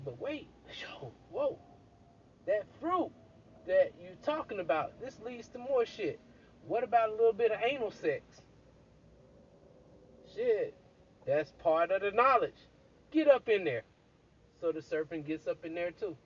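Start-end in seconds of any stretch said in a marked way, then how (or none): 0.1-8.2 high, eager serpent pitching more; a lightly voiced serpent getting carried away; excited serpent. Serpent to Eve, lightly voiced excited pitch. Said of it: "Serpent's like". 10.3-13.8 high, louder go-ahead; eager Eve. Retold or imitated. Eve urging the serpent, eager and loud.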